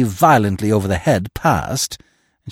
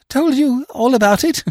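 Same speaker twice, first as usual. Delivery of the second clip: very high, louder bleating question; dismayed bleat; 5 dB louder than usual. A narrator's reading. Freddy pictures his aunt finding out, dismayed bleat. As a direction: bleat it like a worried sheep. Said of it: "he bleated".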